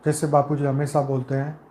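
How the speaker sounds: calm, measured meditation voice with long pauses between phrases; guided meditation. Acted. Leader guiding souls with eyes closed into peace, calm meditative delivery.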